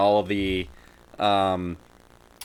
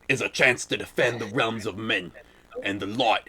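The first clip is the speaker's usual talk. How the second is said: Southern elf voice. Pretend. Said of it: "deep Southern accent is the elves".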